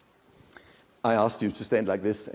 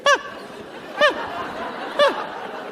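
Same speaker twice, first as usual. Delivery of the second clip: demo cry of ah; much slower than usual. Shown as a demonstration. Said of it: "do like this and say".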